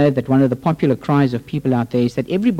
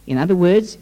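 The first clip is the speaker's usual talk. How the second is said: usual speaking voice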